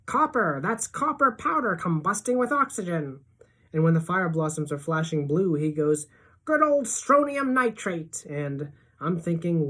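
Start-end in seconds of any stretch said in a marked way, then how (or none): 0.0-3.2 high, thrilled cry; high-pitched, excited yelling; excited scream. A narrator's reading. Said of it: "Freak tugs my hair and screams". 6.4-8.2 high, drawn-out cheer; thrilled, high-pitched call; excited shouting. A narrator's reading. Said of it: "Freak keeps on shouting out the names".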